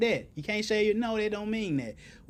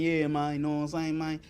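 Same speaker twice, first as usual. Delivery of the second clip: mock street talk; 3 semitones lower, 3 dB quieter than usual. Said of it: "If you ain't talking".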